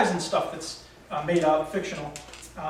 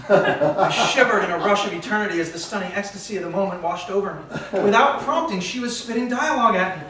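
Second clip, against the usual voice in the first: rapt, swept-up narration; story narration; 2 semitones higher, 3 dB louder than usual. A narrator's reading. Narrator overcome as she quotes dialogue at him, rapt narration. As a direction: read it as an overblown swoon. Reads own story aloud.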